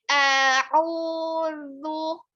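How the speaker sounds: A'udzu with tongue between teeth. Shown as a demonstration. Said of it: "lidahnya harus keluar".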